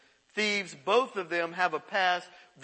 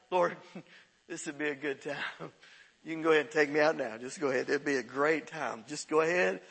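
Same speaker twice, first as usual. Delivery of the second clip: resigned prayer; 3 semitones lower than usual. Retold or imitated. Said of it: "you're just like".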